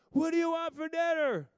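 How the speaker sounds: put-on high, loud little girl voice; little daughter. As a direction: ask patiently like a sweet kid. Daughter asks a third time.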